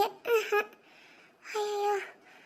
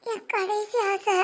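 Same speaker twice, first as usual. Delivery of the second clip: faking a dying wish; slower than usual. Pretend. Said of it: "Maragathamma நடிக்கிறாங்க".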